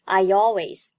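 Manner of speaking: "I always" with a y sound between the words; linking y glide. Shown as a demonstration. Teacher shows the yet的音 inserted, "I always" linked by y. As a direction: say "I always" like "I-yalways". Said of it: "两个音中间夹了一个yet的音".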